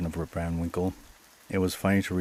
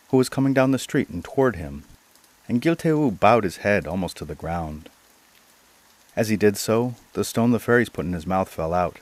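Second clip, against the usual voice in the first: measured, carefully phrased storytelling; story narration. A narrator's reading. Narrator telling of an old man back from the mountains, storytelling. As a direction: read it out as a folk tale.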